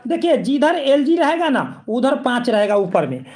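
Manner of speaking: slow, spelled-out teaching of the trick; teacher slowing down to drill in a memory trick; slow trick statement. Shown as a demonstration. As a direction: lay the rule out slowly so it sticks. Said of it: "ये trick आप लोग को मैं बताता हूँ".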